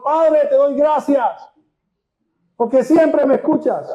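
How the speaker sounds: high, slow proclamation of thanks; declaimed prayer. Acted. Acts Jesus praying aloud at tomb.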